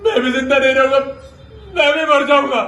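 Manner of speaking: firm acted despair; grief-stricken but steady; despairing vow. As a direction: declare it in anguish, voice held together. Despairing man vows to die.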